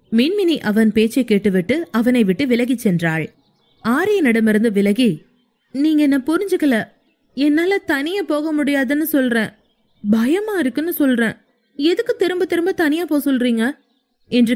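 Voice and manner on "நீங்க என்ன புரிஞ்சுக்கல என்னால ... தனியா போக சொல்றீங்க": higher voice, hurt and pleading; wife protesting she is scared to go alone; upset young woman. Acted. Heroine voiced by narrator. (உயர்ந்த குரலில் வருத்தமான கெஞ்சல்)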